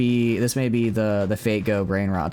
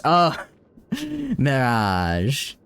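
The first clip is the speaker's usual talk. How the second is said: Princess Bride wedding priest; 3 semitones higher, much slower than usual. Retold or imitated. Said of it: "since I watched The Princess Bride".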